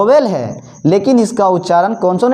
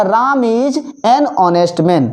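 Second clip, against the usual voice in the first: slow and clear; slow demonstration; slow model sentence; much slower than usual. Shown as a demonstration. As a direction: read it out for the class. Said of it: "अगला".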